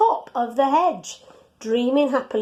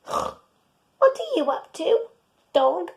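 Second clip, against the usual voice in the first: higher, slow, curious pig; 7 semitones higher, slower than usual. Acted. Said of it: "asked Pig".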